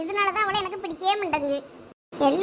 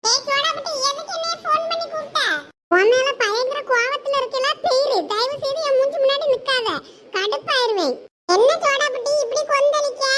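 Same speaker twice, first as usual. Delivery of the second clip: higher, cranky friend annoyed at being called away; irritated friend voice; 5 semitones higher than usual. Acted. A friend complains about leaving his biryani, irritated and high. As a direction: play the grumpy friend, voice pitched up.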